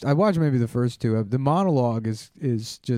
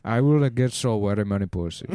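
put-on Indian accent; 4 semitones lower than usual. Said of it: "when you do an Indian voice".

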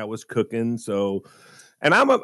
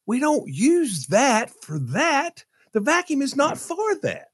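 wife scolding; 12 semitones higher, slower than usual. Retold or imitated. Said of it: "She goes".

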